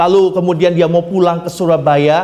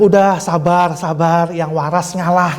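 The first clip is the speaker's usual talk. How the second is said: retold soothing; 3 semitones lower than usual. Istri menenangkan suami yang kesal.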